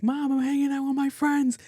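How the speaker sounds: very high, put-on protest; imitated exasperated daughter. Daughter explaining herself to mom by phone, mock exasperated. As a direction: whine back at mom in a high voice.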